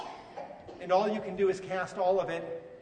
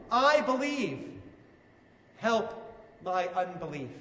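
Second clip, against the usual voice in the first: slow, raised confession sinking away; crying out. Retold or imitated. Father of the child answering Jesus, crying out in mild desperation. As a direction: cry it out, then falter with pauses. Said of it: "cries out and says".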